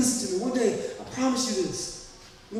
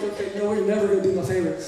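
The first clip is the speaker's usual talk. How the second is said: mock sulky aside, chuckling; fake-offended, laughing through it; laughing mock complaint at Seth; laughing mock grudge; faster than usual. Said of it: "I'm like".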